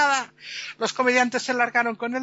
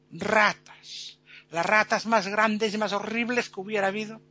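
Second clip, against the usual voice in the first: showman presenter. Acted. Presenter announces the plagues of Egypt, deliberate showman delivery. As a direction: unveil each horror with ceremony. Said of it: "Y dice el presentador".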